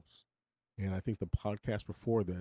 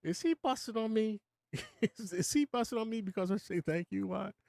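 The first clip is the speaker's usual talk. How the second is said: inner worry; 11 semitones higher than usual. Retold or imitated. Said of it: "at first it's like".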